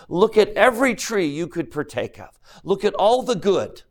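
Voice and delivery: put-on a loving father lifting his child up; gentle Heavenly Father. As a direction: coax them to see all they can do. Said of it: "I think Heavenly Father is saying".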